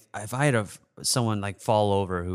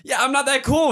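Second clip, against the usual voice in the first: mock meek reply; 5 dB louder than usual.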